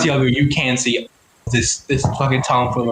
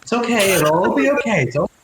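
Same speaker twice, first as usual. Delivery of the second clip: soothing; 7 semitones higher than usual. Acted. Partner soothes the panicking friend.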